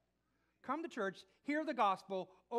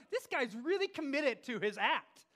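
amused audience; 4 semitones higher, 4 dB louder than usual. Retold or imitated. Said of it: "And the audience is like".

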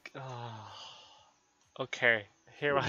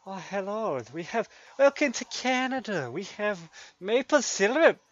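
high-pitched, hammed-up Canadian accent; badly faked Canadian accent, pitched up; Canadian accent slipping into Welsh; 7 semitones higher, 5 dB louder than usual. Shown as a demonstration. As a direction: attempt Canadian and drift towards Welsh. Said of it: "And you went Welsh".

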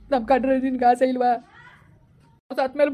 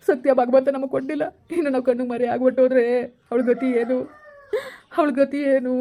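put-on anguished, tearful worry for the child; despairing lament; 2 semitones higher than usual. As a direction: voice giving way to tears. Despairs over the child's fate.

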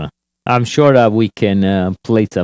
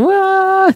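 imitated effect wail. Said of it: "I like the one".

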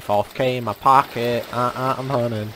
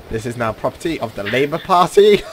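laughing; 4 dB louder than usual. Real, not acted. Laughing while claiming ship.

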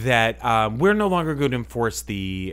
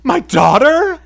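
shocked outburst; 13 semitones higher, 14 dB louder than usual. Acted. Caller hearing the daughter's name over the phone, shrieking in shock. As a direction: shriek it in mounting disbelief.

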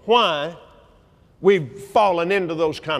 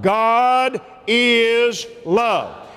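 slow, steady God is love; slow repeat; much slower than usual. Shown as a demonstration. The preacher repeats it with the church, slow and steady. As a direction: say it again, slowly and firmly. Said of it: "Say it out loud".

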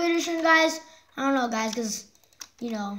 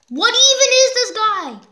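louder exasperated; 9 semitones higher, 6 dB louder than usual. Real, not acted. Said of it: "repeated louder".

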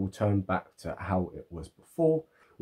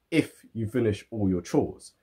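if leaned on with a mild push; stress on if. Retold or imitated. Stepmother setting Cinderella a condition, light stress on if. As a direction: lean on the word if as a condition. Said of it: "very much emphasis on the word if".

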